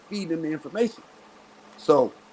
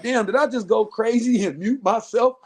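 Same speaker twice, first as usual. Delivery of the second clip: higher, louder acted-out thought; raised-pitch retold bewilderment; mock disbelief; 7 semitones higher, 5 dB louder than usual. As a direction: replay a puzzled self-check out loud. Acts out own puzzled alarm.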